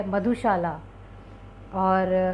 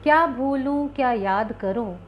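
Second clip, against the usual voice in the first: poem recitation; 3 semitones higher than usual. Shown as a demonstration. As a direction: begin the poem with a raised, declaiming first phrase. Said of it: "इसी से मैं आज का काव्य पाठ शुरू करती हूँ".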